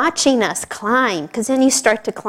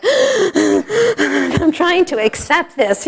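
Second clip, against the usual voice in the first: out of breath; 7 semitones higher, 4 dB louder, much slower than usual. Retold or imitated. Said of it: "I'm just trying to catch my breath".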